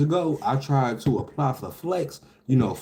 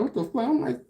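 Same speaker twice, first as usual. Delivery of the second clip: retold shock; 6 semitones higher than usual.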